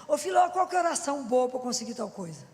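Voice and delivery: hammed-up caller after a quick fix; mock shout down the phone. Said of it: "O povo me liga e fala assim".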